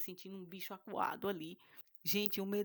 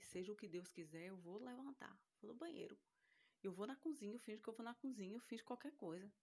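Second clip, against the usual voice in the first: softer, talking herself into it; quiet inner resolve; 2 semitones higher, 7 dB quieter than usual. Retold or imitated. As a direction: murmur the plan to yourself. (decisão murmurada para si mesma)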